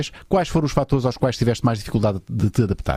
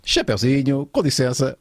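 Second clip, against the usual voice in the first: ordinary delivery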